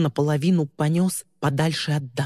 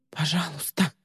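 trembling plea; 2 semitones higher, 4 dB quieter than usual. Acted. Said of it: "дрожащим голосом взмолилась Ли".

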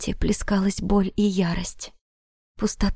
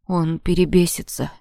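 deep hopeful voice; 2 semitones lower than usual. Acted. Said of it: "Басовитый голос с нотками надежды".

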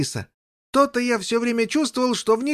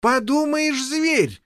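exclaiming; 5 semitones higher, slower than usual. Acted. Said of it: "вскричал он".

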